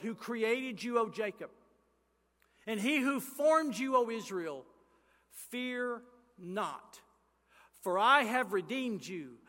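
slow, solemn proclamation of scripture; scripture reading. Acted. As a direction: read the verses with weight and pauses. Reads Isaiah aloud.

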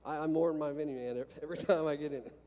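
laughing. Real, not acted. Laughing about the minivan.

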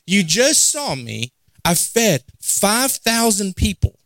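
slow, emphatic mild reproach; understated disbelieving frustration; acted exasperation. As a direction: spell it out slowly, put out at being doubted. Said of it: "feeling some type of way".

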